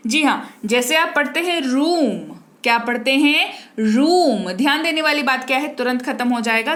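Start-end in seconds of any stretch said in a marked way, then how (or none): 3.8-4.5 रूम with weight on a long "oo"; emphatic teacher's रूम, "ROOOM"; stressed long "oo". Shown as a demonstration. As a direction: lean into the drawn-out vowel of रूम. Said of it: "जरा जोर पड़ेगा शब्द पर".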